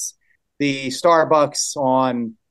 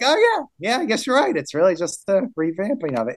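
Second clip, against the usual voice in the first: surprised realization; 5 semitones higher than usual. Retold or imitated. Retells his own surprise.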